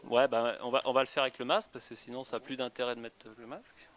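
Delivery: muffled behind a face mask; through a face mask. Real, not acted. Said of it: "il va falloir que j'enlève le masque pour parler".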